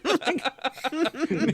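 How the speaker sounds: hammed-up neighbor shouting down from a balcony; mock angry yell. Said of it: "a guy on the balcony yelling".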